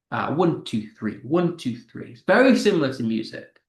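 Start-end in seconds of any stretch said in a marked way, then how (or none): 0.3-2.1 "one, two, three" counted in a repeating three-beat; musical counting. Shown as a demonstration. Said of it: "doing music, this is like our".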